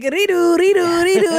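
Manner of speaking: high, loud chant in an imitated South Asian accent; excited South Asian-accented chanting. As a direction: mimic the kids' South Asian-accented yell. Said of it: "So I'd be like".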